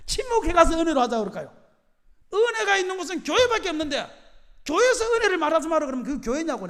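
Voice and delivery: high, loud rhetorical challenge; retold protest. Retelling his protest to elders.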